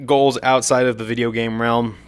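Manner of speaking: talking through hiccups; words broken by hiccups. Real, not acted. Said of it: "Excuse me, I have the hiccups".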